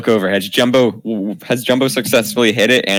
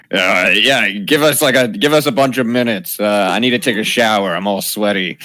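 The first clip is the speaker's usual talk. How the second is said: through a door. Acted. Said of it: "yell through the door".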